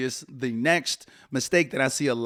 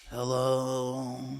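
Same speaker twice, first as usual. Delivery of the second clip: flat, drawn-out, listless, low-energy, unmotivated delivery; 4 dB quieter than usual. Coaching about phone calls, showing how not to answer: super low-energy hello. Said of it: "You got this super low energy".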